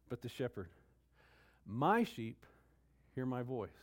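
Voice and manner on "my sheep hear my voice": MY hit louder, then a pause; stress on MY. Shown as a demonstration. Preacher stressing the shepherd over the sheep, emphatic. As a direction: lean on "My" and leave a gap before "hear". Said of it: "do you see the emphasis".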